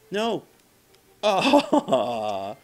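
loud dismayed cry that cracks; voice cracking. Real, not acted. Player hit in the game, loud cry with cracking voice. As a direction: cry out, voice breaking on it. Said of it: "did my voice just crack?".

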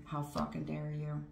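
hissed whisper of disbelief; an outraged aside under the breath; whispered outrage. Acted. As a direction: whisper it, shocked and furious. Querent's outrage voiced in reading.

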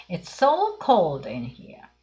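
"It's so cold here." said very slowly, word by word; slow model reading. Shown as a demonstration. Teacher slowly modelling the phrase for the class. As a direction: spell it out slowly for learners to copy. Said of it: "強調している形".

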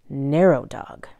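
a tiny whisper for the narrow dog. Acted. Reading the narrow dog page to kids, playful whisper. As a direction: breathe it out small and thin.

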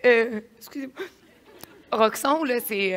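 choked up, fighting back tears; crying. Real, not acted. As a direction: voice breaking through tears. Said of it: "je pleure de même".

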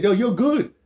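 breezy "you're all set but" voice; mock-cheerful immigration officer brushing him off; casual official. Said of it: "They said".

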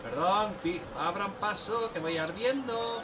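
drawn-out, rising warning; mock-urgent calling out. Driver asks people to open the way, mock-urgent high call. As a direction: call ahead to clear the road, stretching the words. Clearing the way while driving.

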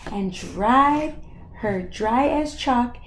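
measured, rhythmic picture-book reading; lilting storytime delivery; story narration. Acted. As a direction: read the rhyme to a young child, lingering on key words. Reads picture book to child.

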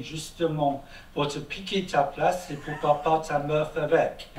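French read with a put-on, somewhat rough British accent; mock British accent. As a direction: read the whole text as a brusque Englishman speaking French. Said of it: "excusez-moi mon accent, britannique un peu, un peu brutal".

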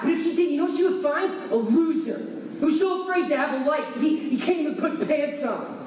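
angry outburst. Acted. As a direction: lash out at dad, pitch climbing as you go. Son lashes out at father.

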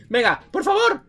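rising from plea to loud high shout; impatient urging. Real, not acted. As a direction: urge the game on, stretching it out. Apremia al texto del juego. (súplica impaciente que sube a grito agudo)

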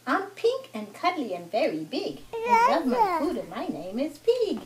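bouncy sing-song rhyme; lightly voiced storybook pig; children's story reading. Mother reads the pig's verse to her son, children's story reading.

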